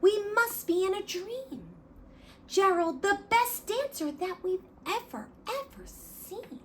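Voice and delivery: amazed shout. Acted. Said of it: "They shouted".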